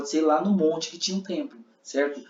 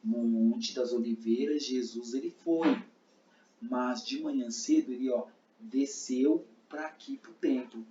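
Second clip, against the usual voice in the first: slow soft demo; 3 dB quieter, slower than usual. Shown as a demonstration. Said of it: "eu posso fazer que então".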